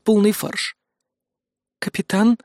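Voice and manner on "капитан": high, insistent rising question; more insistent. Acted. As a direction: press the captain for an answer, pitched up. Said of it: "более настойчиво произнесла". (настойчивый вопрос высоким голосом)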